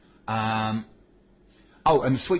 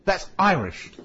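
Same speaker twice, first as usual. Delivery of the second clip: loud protest; 8 semitones higher, 5 dB louder, slower than usual. Real, not acted. Arguing the accent is Irish.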